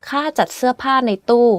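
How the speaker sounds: up-then-down pitch on ข้า, เสื้อ, ผ้า, ตู้; mostly falling tones. Shown as a demonstration. Teacher giving another example, "ข้าจัดเสื้อผ้าในตู้" in mostly falling tones. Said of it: "Every word on this sentence is in falling tone, except".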